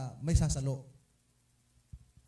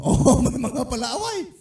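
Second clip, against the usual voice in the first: laughing; 8 semitones higher, 9 dB louder, slower than usual. Real, not acted. Laughs at the quarrelsome members.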